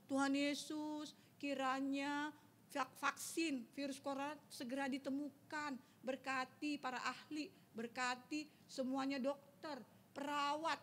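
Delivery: prayer. Shown as a demonstration. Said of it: "Ya, berdoa kepada Tuhan".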